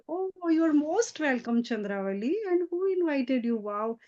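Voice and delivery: sarcastic welcome. Retold or imitated. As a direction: greet the rival with fake politeness. Tulsi mocking the uninvited guest.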